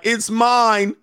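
a hammed-up possessive man; possessive mock boast. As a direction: crow it like a jealous boyfriend. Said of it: "You'll be like".

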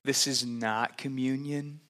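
chuckling through the words; laughing. Real, not acted. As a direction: say it with a small laugh. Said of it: "So I just feel like I need to say".

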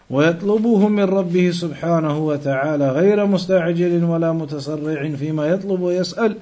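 rapid reading of an Arabic commentary; fast Arabic text reading. Acted. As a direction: rattle through the Arabic passage, fast.

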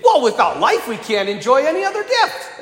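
lightly voiced earnest kid; a hint of a child's voice; child explaining. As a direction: explain it like a schoolkid, lifting at the end. Child explains the answer to priest.

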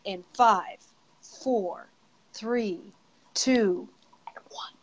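countdown trailing off to a whisper; fading countdown. Real, not acted. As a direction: let the count fade to nothing.

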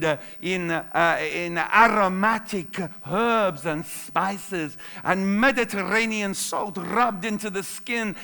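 a mock posh waiter accent reading the menu; waiter's accent. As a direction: play a fancy waiter describing the dish. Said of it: "I don't know why I'm speaking in that accent".

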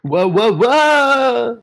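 loud, high alarmed whoa; startled whoa. Acted. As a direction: yelp as you slip and fall. Slipping and falling into kitchen.

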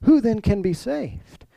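a touch of disbelief in a retold question; mildly amazed. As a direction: wonder aloud, as if it can't be possible. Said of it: "he's amazed".

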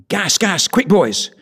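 high, loud urgent call to the men; poem's alarm cry. Acted. Soldier warning his comrades of gas, urgent loud cry. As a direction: shout the warning as the gas rolls in.

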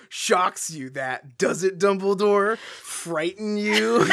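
slow taunting villain, rising high; mocking villain. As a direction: taunt him slowly. Voicing villain, rising mockery.

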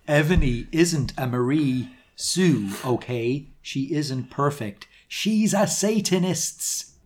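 slow, deliberate read-aloud of misspelt words; author's note reading. A narrator's reading. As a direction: spell it out slowly, word by word.

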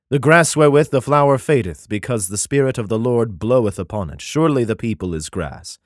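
solemn, measured Bible reading; declaiming scripture, slowing at the end. Acted. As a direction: read it like a King James passage. Reads Isaiah aloud.

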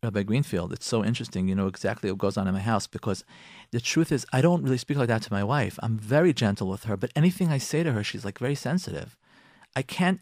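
a man quietly admitting his trouble; imitating a listening husband. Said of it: "are thinking to themselves".

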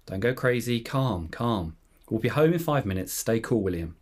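lightly acted self-soothing grandpa; imitated calm, with settling pauses; controlled calm. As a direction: talk yourself down in short, measured phrases. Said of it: "Grandpa's saying again in a controlled voice".

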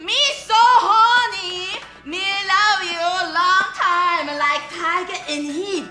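put-on drawn-out broken-English Asian accent; slow, hammed-up stereotype accent; mock Asian accent. Actress playing the stereotype on the director's cue, slow mock accent. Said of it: "more Asian than that".

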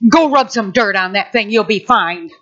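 low, matter-of-fact grandpa. Retold or imitated. Grandpa dismisses a child's injury, low and unbothered. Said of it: "My grandpa".

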